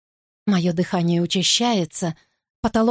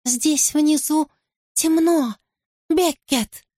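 high slow warped double voice; eerie creature calling from below; distorted eerie voice; 8 semitones higher, slower than usual. Acted. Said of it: "Голос мой, но какой-то искорёженный".

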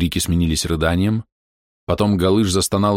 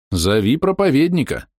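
shouting; 7 semitones higher than usual. A narrator's reading. Calling out for the preacher.

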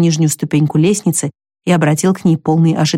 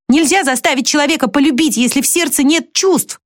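higher, pleading exclamations; exclaiming; 7 semitones higher than usual. A narrator's reading. Jo begging Teddy's forgiveness, higher exclaiming voice. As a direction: cry out your apology, voice pitched up. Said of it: "воскликнула Джо".

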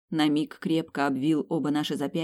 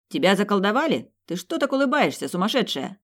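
high, raised, incredulous shout; 5 semitones higher, 4 dB louder than usual. A narrator's reading. Ethan yells at the smiling heroine, high incredulous shout. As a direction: call out in sharp disbelief, pitch jumping up. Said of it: "крикнул Этан".

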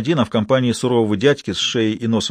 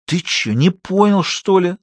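slow, high, strained menace; spiteful wheeze; 8 semitones higher, slower than usual. A narrator's reading. Gunman threatens the doctor, wheezing spitefully. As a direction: squeeze out a nasty threat. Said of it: "злобно просипел обладатель пистолета".

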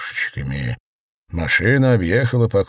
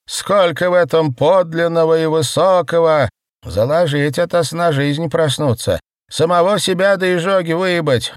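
hoarse rasp; 9 semitones higher, 3 dB louder than usual. A narrator's reading. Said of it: "хрипела А А А".

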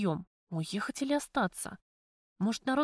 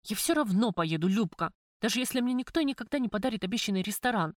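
твёрдо. Acted. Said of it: "твёрдо заявила я".

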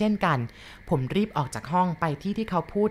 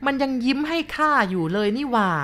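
put-on higher, insisting old woman; insistent grandma; 8 semitones higher than usual. Grandma insists to the boy he smiled at her. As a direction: insist it really happened.

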